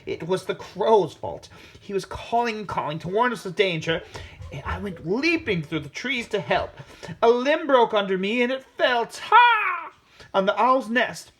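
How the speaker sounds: high, hurried monkey excuse; excited monkey. A narrator's reading. Monkey rising high and loud as the branch breaks. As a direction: panicky monkey telling the king about the fall. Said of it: "said the monkey".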